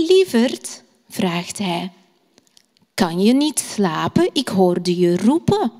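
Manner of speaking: gentle storytelling voice with lightly voiced father and son; story for children. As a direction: tell it like a bedtime story. Teacher tells bedtime story to children.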